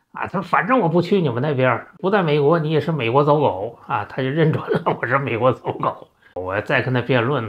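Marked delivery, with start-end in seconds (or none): 0.4-4.0 mock angry father. Father scolds son as American lackey.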